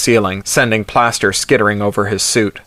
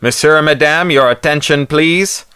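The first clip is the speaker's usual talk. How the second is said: booming PA voice; 5 semitones higher than usual. A narrator's reading. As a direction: boom it through a loudspeaker. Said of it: "amplifying the voice of the Pierre inside to teeth-shaking booms".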